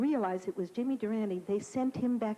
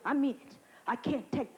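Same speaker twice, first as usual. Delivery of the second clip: Jimmy Durante. Retold or imitated. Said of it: "Jimmy Durante got up there and he says".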